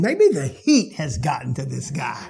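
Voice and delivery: chuckling through the line; laughing scoff. Retold or imitated. Woman thinking Jesus is crazy, laughing it off. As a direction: laugh it off as nonsense. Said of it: "She's thinking".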